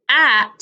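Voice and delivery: HAT split into a puffed h, then AT; teacher sounding out h-At; isolated H. Shown as a demonstration. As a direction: say h alone, pause, then At. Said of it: "starts with the".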